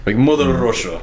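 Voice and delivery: mock Russian accent. Shown as a demonstration. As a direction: try out a stock Russian accent. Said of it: "do this in a Russian accent".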